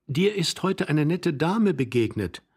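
high, slow, emphatic repetition; wife repeating herself. Acted. Young wife repeating for her confused husband, high and slow.

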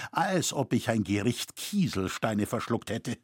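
plain reading voice

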